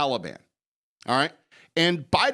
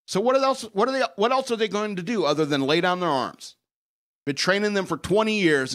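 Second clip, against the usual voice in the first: exasperated, voice jumping much higher; wild unhinged ranting; 5 semitones higher than usual. Real, not acted. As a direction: throw the question out in disbelief. Exasperated rant peak.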